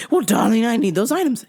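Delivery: mock-English caller pleading; phony English accent. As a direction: insist in fake English. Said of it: "phony English accent".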